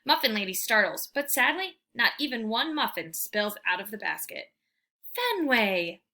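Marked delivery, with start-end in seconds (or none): 5.1-6.0 scolding. Acted. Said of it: "Fetchman scolds".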